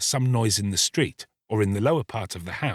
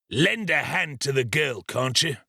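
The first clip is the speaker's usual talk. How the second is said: mildly impatient ruffian, pitched up; 5 semitones higher than usual. A narrator's reading. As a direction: snappish request with a touch of irritation. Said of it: "replied Sikes impatiently".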